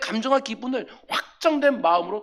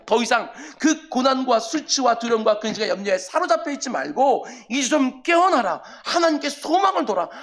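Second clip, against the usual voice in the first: rebuking his soul; 2 semitones higher than usual. Acted. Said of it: "내가 꾸짖는 것이지요".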